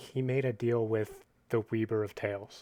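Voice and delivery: hushed, soft, close-up half-whisper. Leaning close to tell another character a secret: half-whispering in her ear. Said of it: "I whisper in her ear".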